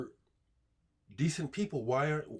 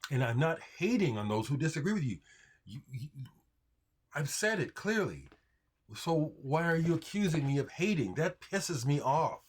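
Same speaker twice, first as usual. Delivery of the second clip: real anger; 4 semitones higher than usual. Real, not acted. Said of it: "I'm angry".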